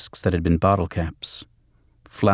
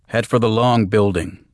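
raised voice over roaring engine; shouting over engine; 3 semitones higher, 4 dB louder than usual. Acted. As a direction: call it out over the engine noise. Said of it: "Conroy said over the engine".

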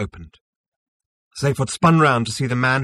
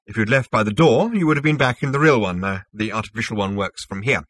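lightly voiced self-assured official; smug Zarniwoop, explaining; 6 dB louder than usual. Zarniwoop explains his synthetic universe to Zaphod, lightly smug. Character dialogue in narration.

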